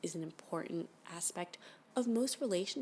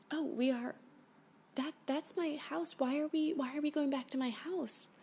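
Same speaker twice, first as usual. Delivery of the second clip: rising panic; 7 semitones higher than usual. Acted. Captive spots her own house from the ship, in rising panic. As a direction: panic creeping in.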